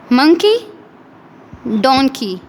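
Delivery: Monkey said with the a sound, donkey with the o sound; a and o contrast. Shown as a demonstration. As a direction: set the two vowels side by side. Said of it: "observe the difference between the o sound and a sound".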